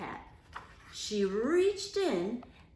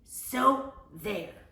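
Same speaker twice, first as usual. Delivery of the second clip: smug; 6 dB louder than usual. A narrator's reading. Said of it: "she added".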